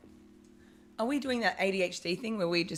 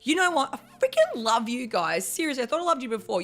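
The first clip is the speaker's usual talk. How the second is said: retold gushing; 5 semitones higher, 3 dB louder than usual. Retold gushing praise on phone.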